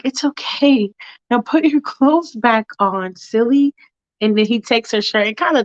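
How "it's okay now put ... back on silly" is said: higher, gently chiding voice; reassuring Michael. Acted. Michael soothing Allison after apology, higher kindly voice. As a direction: reassure lightly in a raised voice. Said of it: "And Michael's like".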